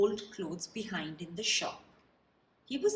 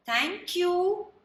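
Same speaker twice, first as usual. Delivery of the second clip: high, louder squeaky mice; squeaky thanks; 9 semitones higher, 6 dB louder than usual. Acted. Baby mice thanking George for the shoe house, squeaky. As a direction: squeak it out together. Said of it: "they squeaked".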